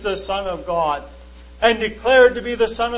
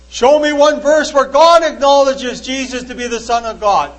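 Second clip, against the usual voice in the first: raised, demanding voice quoting the skeptic; loud challenge; 2 semitones higher, 6 dB louder than usual. Retold or imitated. Preacher quoting the Muslim man's demand, loud and challenging. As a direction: throw down the challenge, louder.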